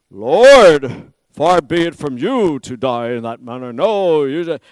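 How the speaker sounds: loud, urgent protest; protesting Peter. Acted. Peter protesting to Jesus about his death, loud and urgent. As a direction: push back hard, refusing the idea. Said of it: "And here goes Peter again".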